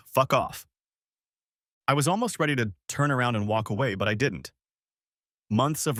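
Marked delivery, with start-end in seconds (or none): 0.1-0.7 blunt translation. Shown as a demonstration. Narrator translating his mother's tone, a curt dismissive snap. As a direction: spit out the real meaning. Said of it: "It actually means".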